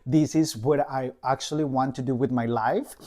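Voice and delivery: questioning, each phrase lifting at the end; self-questioning. Acted. Newcomer questioning their life choices, in a doubtful questioning tone. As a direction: voice your doubts as rising questions. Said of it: "you start to question about everything".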